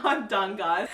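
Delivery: "I'm done" broken by a laugh; said through real laughter. Real, not acted. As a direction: laugh it out as you give up. Giving up, laughing.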